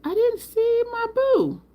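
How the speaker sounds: very high, drawn-out playful whine; mock complaint. Mock complaint about missing friend.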